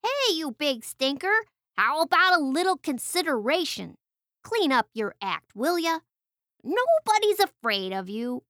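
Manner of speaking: a small bird telling off a big stinker; fed-up little bird. Acted. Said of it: "just had enough".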